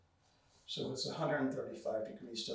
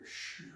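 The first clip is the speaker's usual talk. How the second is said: liver sound; 9 dB quieter than usual. Shown as a demonstration. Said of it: "You could use the liver sound here".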